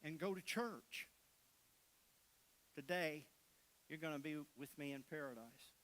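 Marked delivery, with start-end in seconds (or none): 2.7-5.7 soft, gentle promise from Jesus; quiet promise. Acted. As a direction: hush it like a tender assurance.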